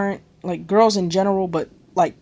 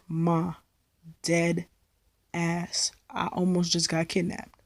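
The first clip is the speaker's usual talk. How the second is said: softer, pleading; hushed plea; 3 semitones lower, 10 dB quieter, slower than usual. Retold or imitated. Pleading quietly with her mom on the phone. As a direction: say it low so mom believes you.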